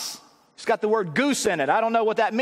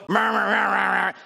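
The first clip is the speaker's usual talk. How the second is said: murmur; 3 semitones lower than usual. Acted. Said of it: "you know, murmuring".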